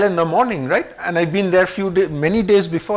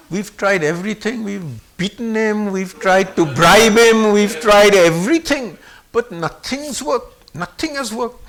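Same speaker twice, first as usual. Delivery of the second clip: drawn-out, emphatic list of failed attempts; exasperated pleading; 5 dB louder than usual. Mother tells Baba nothing has helped, exasperated. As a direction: plead helplessly, stressing each attempt.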